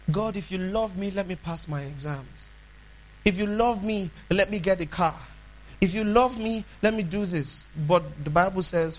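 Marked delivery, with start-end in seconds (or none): 0.1-7.7 softer, uncertain pleading; doubting bargaining prayer. Retold or imitated. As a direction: bargain with God, full of doubt. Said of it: "this is how the devil wants you to talk".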